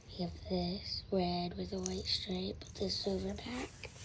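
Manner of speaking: whispering. Acted. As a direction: breathe the words, no voice. Lure unboxing, whispered lines.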